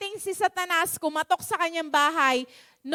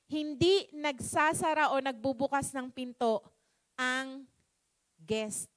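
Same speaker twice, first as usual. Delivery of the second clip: lightly voiced Lord, lower and measured; the Lord's reply; 4 semitones lower than usual. Lord answering His complaining host, low and measured. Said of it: "sabi lang ng Panginoon sa".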